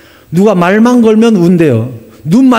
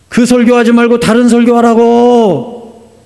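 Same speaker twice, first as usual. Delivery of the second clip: higher, drawn-out insistent order; insistent command; 5 semitones higher, slower than usual. Acted. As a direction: press the order home slowly. Holy Spirit's retold command to pastor.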